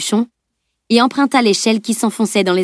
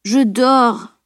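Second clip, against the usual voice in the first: grumbling; 3 semitones higher than usual. A narrator's reading. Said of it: "grommela son amie".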